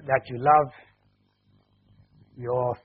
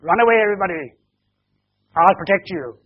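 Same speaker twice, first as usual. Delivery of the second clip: loud acted shout, raised voice; heroic shout; 4 semitones higher, 5 dB louder, faster than usual. Ben covering the grenade, shouting to everybody to run. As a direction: call out to save everyone, storyteller's version. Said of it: "he shouted to everybody".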